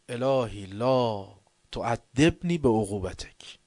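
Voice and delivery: slow, drawn-out supplication; intoned prayer recitation. Retold or imitated. The mystic begins the Abu Hamza prayer, slow intoned recitation. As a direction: intone it like the start of a dawn prayer. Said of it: "شروع کنه ابو حمزه خوندن".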